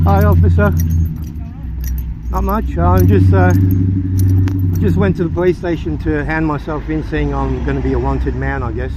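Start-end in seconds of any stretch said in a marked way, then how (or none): 0.0-7.3 out of breath from running; catching breath midword. Real, not acted. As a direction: talk while still catching breath. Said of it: "I lost my breath running across the road".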